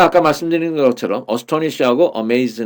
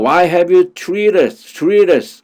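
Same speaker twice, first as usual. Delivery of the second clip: scolding mother; 6 semitones higher, 4 dB louder, much slower than usual. Retold or imitated. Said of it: "나무라는 식으로 불러서 그다음".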